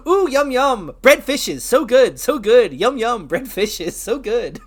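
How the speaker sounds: lightly voiced happy villager NPC; game NPC voice. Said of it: "one of those faith N P Cs, like".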